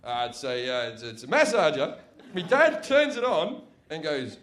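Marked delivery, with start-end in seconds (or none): 0.0-2.0 low, hesitant fatherly cover story; wry, evasive dad. Retold or imitated. Dad explains the mystery object to his two sons, wryly. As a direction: stall in a lower voice, amused to yourself. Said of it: "sort of smiles wryly to himself".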